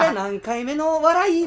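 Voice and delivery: breathless high laughing voice; squeezing words out through laughter; after laughing hard. Retold or imitated. Voicing laughing caller.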